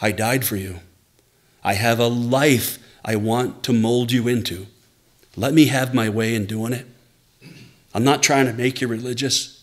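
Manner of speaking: lightly voiced loving Father, gentle and sincere; gentle reassurance; Father's tender voice. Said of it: "that voice you hear is saying".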